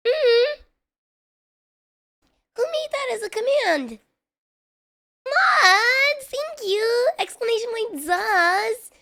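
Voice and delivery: high, loud, thrilled thanks; delighted. Real, not acted. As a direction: squeal with surprised gratitude. Delighted by mods' command.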